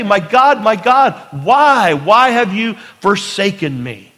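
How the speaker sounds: preacher voicing Jesus on the cross, crying out loud; crying out to God. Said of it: "He cried out".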